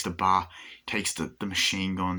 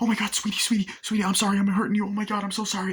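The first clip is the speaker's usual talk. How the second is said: mock sorry; 13 semitones higher, 4 dB louder, faster than usual. Villain fakes pity to girl.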